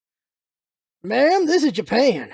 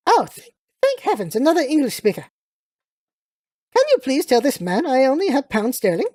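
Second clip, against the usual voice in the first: lightly voiced grand English lady; relieved British lady; 2 semitones higher than usual. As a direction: plead politely as a British lady.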